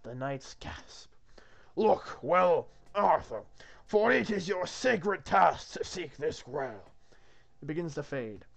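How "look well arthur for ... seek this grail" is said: loud, grand divine proclamation; commanding God. Acted. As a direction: proclaim it as the Lord, drawn out at the end. God gives the quest.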